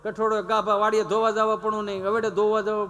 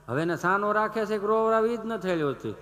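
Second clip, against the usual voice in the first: usual speaking voice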